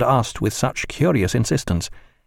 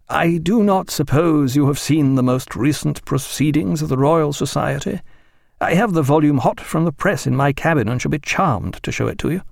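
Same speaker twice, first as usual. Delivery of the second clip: a slightly higher, courteous official; lightly voiced Admiralty official; 5 semitones higher than usual. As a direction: lightly play a polite bureaucrat offering a favour.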